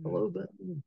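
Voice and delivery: a light repeat of the Brummie hello; Brummie accent. Retold or imitated. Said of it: "he said it in a Brummie accent".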